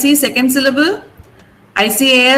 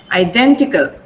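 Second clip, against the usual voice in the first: Identical, lower, with DEN stressed; 5 semitones lower than usual. Shown as a demonstration. Teacher shows marked stress, identical with DEN stressed. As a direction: put the weight on DEN, i-DEN-tical. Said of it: "pronounce it that way".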